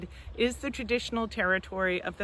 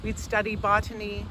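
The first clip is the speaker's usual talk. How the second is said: measured poetry recital with pauses between lines; poetry reading. Acted. Poet reads a poem to a virtual audience, measured poetry reading. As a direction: read it as verse, letting each line land.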